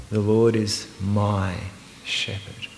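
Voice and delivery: slow, then "shepherd" breathed in a whisper; hushed, whispered "shepherd"; stress on SHEPHERD. Shown as a demonstration. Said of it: "I'm gonna emphasise just one at a time".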